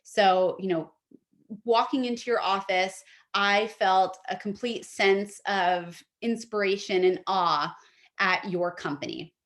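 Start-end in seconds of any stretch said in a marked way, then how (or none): 1.7-9.3 heartfelt, earnest sample line; emotive sample opener. Shown as a demonstration. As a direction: read it like you mean it. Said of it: "start with something emotive".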